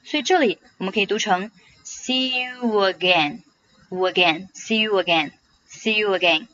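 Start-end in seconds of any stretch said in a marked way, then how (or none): 1.8-6.5 "see you again" joined with a w glide before "again"; "see you again" linked smoothly as a demonstration. Shown as a demonstration. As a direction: slide from "you" into "again" through a w. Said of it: "中间会加上一个W的半元音".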